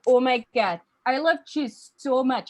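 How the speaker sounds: over-the-top Minnesotan rant; crazed Minnesota accent. Acted. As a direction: go giddily unhinged in a Minnesota accent. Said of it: "the voice goes crazy".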